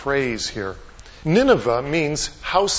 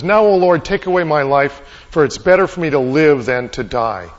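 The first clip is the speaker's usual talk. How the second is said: loud, mildly indignant appeal to God; acted angry prayer, pushed out loud; angry plea; 7 dB louder than usual. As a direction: plead forcefully, as an acted complaint. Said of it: "is angry".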